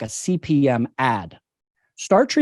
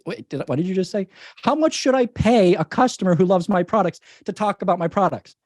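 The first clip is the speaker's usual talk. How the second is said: higher-pitched mock disbelief; incredulous client; 5 semitones higher than usual. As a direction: play a client catching themselves mid-question. Acts out a client's startled question.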